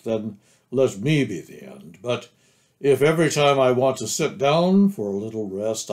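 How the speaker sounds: a hint of a ponderous, put-upon grumbler; lightly voiced glum donkey. Eeyore objects to Rabbit's relations, lightly glum. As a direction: complain wearily, sinking at phrase ends. Eeyore's long complaint in the story.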